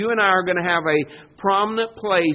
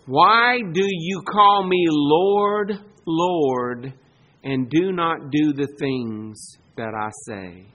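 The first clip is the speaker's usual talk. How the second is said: slow solemn question; 4 semitones lower, slower than usual. Retold or imitated. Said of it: "what Jesus told the people".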